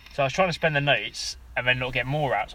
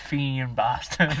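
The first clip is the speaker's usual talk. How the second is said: mock Irish accent; slower than usual. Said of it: "Why are you putting accents on?".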